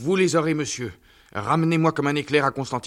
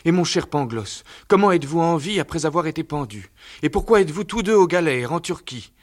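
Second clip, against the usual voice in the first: much higher, fast tumbling questions; overjoyed questions; 9 semitones higher, faster than usual. Acted. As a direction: pour out questions in delight. Candide overwhelmed reunion.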